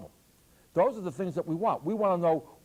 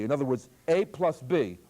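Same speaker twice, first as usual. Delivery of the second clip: A plus B said as one group; group "A plus B" together with the voice; grouping by inflection. Shown as a demonstration. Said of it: "listen to the voice inflection here".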